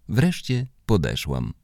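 plain reading voice

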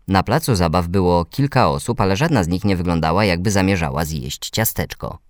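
plain reading voice

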